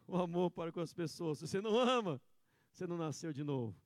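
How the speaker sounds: usual speaking voice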